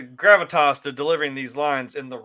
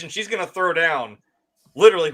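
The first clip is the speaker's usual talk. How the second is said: ordinary talk, nothing marked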